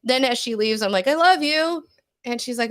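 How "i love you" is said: higher, singled-out retold "I love you"; affectionate goodbye. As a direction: call out love to a departing daughter, pitched up. Retold mother's goodbye to daughter.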